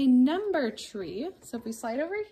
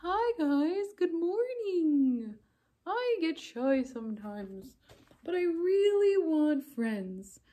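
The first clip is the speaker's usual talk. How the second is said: a timid little puppet peeking out; shy puppet; 3 semitones higher than usual. Acted. Puppet greets class.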